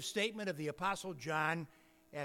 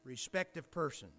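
measured, emphatic Bible reading; scripture reading; 2 semitones higher than usual. Real, not acted. Preacher reads James to the congregation, solemn scripture reading. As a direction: read the verse out with weight and pauses.

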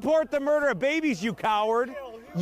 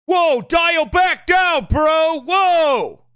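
mock alarmed protest; 3 semitones higher, 10 dB louder, much slower than usual. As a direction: imitate an alarmed bro calling for calm. Mimics critics telling him to calm down.

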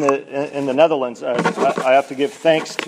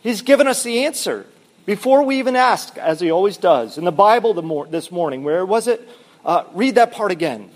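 higher, eager voice; bursting with the good news; lightly voiced excited sister; 4 semitones higher than usual. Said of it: "Betsy then exclaimed excitedly".

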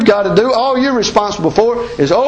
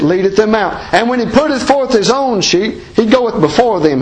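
raised, ringing King James reading; scripture reading; 3 semitones higher than usual. Acted. Preacher reading John ten to his church, ringing scripture voice. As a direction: proclaim the verses to the congregation.

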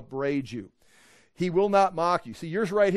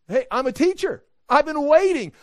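higher and louder, fed-up teacher; exasperated teacher; 9 semitones higher, 7 dB louder than usual. Retold or imitated. Teacher telling the class he has waited, loud and high. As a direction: call out like an impatient teacher.

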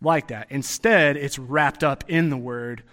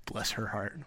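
sugary condescending sigh over a hopeless case; mock-sweet Southern pity. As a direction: feign sympathy while talking down. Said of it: "It's used in the context like".

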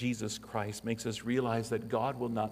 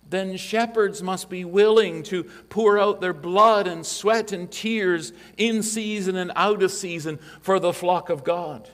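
raised, ringing pulpit voice, much higher and louder; preaching at full force; 8 semitones higher, 10 dB louder than usual. Acted. Pastor thundering at elders about shepherding, full-force preaching. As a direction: drive it home like a revival preacher.

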